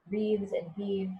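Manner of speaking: slow, drawn-out reading of Wreathed and heaved; slow poem reading. Shown as a demonstration. Teacher slowly reads the line to class, drawn out. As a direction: linger on each word of Wreathed and heaved. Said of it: "here's another change".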